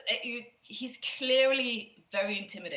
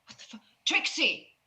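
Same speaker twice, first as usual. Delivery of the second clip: hushed shock, then a loud higher cry; scared outburst; 4 semitones higher, 5 dB louder than usual. Acted. Scared man calls out for Trixie, alarmed and rising. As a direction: start under the breath, then call out her name in alarm. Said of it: "He looks very scared".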